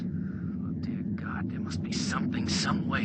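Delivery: breathy, anguished words through static; pleading under his breath; desperate whisper over radio. Acted. Commander desperately searching for a way to save her.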